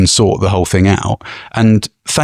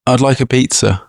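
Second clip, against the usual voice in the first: customer ordering; 8 semitones higher than usual. Pretend. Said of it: "I'll play the pizza".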